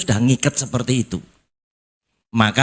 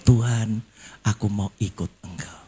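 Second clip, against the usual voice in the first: humbled prayer; 5 dB quieter than usual. Acted. Believer helped by God bows to Him, humbled and soft. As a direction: let it sink down softly, bowed in surrender. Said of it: "Anda semakin menunduk".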